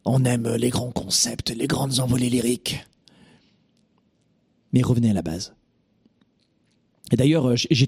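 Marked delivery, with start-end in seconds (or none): 0.1-2.8 mock grandiloquence. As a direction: savour the words like a lofty orator. Mocking francophones' lofty verbosity.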